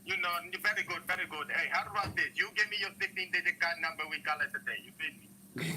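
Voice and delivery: hammed-up Indian accent; put-on Indian accent. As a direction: pitch a dodgy deal in an Indian accent. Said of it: "Can you do Pakistani or Indian?".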